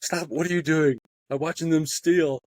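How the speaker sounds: playing his wife, high and fed up; exasperated wife. Wife pulling him away from shoplifters, high and exasperated. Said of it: "my wife's like".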